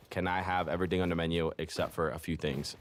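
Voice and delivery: a hint of an Asian accent on "Can I have everything on the menu"; slight Asian accent. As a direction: lightly slip into an Asian accent while ordering. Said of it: "You just got really Asian there for a second".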